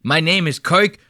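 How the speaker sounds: broad, slow Boston mockery; mock Boston accent. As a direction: imitate a Boston guy stretching his own name. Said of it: "Don't give me that Boston Moynihan shit".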